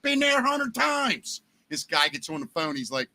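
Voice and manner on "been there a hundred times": hammed-up Baltimore radio voice; Baltimore accent. Host on the radio mocking a caller in a thick Baltimore accent. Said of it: "I'm doing this accent".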